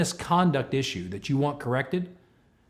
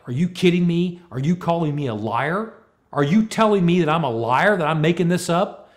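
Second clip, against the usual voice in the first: louder, higher outraged yell, imitated; retold yelling; 5 semitones higher, 6 dB louder than usual. Boss accused of lying to employee, yelling. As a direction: reenact losing it in loud disbelief. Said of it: "Now I'm yelling".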